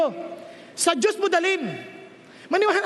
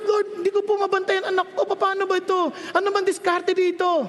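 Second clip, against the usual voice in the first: crying to God. Acted. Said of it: "Iyak ako sa Diyos".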